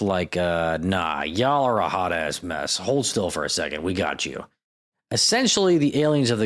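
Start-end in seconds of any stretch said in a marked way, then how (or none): 0.8-4.4 low, unhurried, lightly voiced fixer; lightly acted laid-back authority; casual take-charge rescuer. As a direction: brush them off coolly, a touch lower. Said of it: "usually rolls in with".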